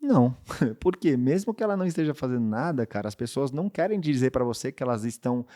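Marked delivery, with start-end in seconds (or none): 0.0-0.3 curt refusal. Retold or imitated. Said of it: "A Maíra vai falar assim".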